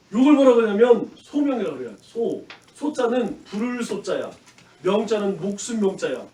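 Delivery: ordinary talk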